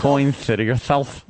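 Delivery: "City" and "yourself" lisped with TH for S; mock lisp. Co-host answering with her lisped line, mock lisp. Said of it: "singing with the lisp like Cindy Brady".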